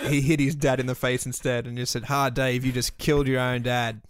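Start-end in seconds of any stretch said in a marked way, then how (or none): 2.1-4.0 lightly put-on bogan Australian accent. Sweeper taunting Dave over his dad, light bogan Australian accent. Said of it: "I'm doing a bogan Australian accent".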